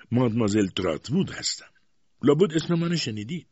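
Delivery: high, loud self-important introduction; imperious aunt. A narrator's reading. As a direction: announce yourself with haughty authority. Stern aunt introduces herself.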